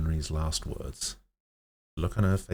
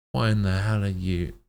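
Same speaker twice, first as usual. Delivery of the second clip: loud, high outburst; angry shout; 4 semitones higher, 6 dB louder than usual. Acted. Fuming doctor shouts at Kaim, loud and high. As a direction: shout in disbelief.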